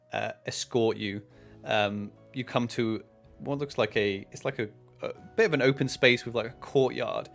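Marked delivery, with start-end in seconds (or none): none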